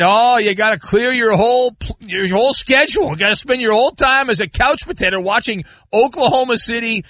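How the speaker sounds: mock hype. Mimics hype about big game.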